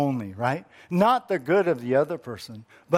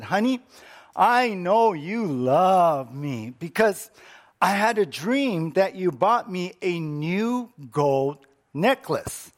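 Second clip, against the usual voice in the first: eager wife; 3 semitones higher than usual. Acted. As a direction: play the hopeful wife, coaxing. Wife voiced in a joke.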